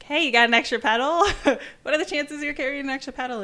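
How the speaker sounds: loud, high, laughing plea; hopeful ask. Retold or imitated. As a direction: beg cheekily, laughing at the odds. Begging passersby for a pedal.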